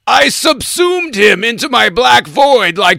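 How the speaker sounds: loud booming monster voice; Armus voice. Pretend. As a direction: boom it out like a goo monster. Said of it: "Armis, are you looking for representation?".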